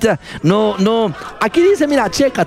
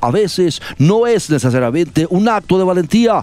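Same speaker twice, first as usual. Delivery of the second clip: a mock-solemn read of the quote, lower; solemn dramatic reading; 4 semitones lower than usual. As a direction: read it like a grave farewell speech. Rereads the quote to close. (lectura solemne y dramática, en tono de burla)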